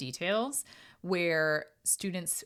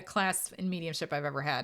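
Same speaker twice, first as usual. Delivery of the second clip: ordinary talk, nothing marked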